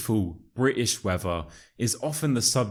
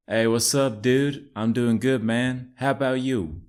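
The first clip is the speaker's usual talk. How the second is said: put-on American accent; 4 semitones higher than usual. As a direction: play Chad, an American bro. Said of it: "my amazing American accent".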